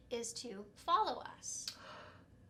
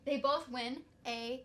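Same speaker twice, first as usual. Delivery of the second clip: booming prize announcer; 10 dB louder than usual. Acted. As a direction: build up the prize like a host. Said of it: "announcing bonus giveaway prize".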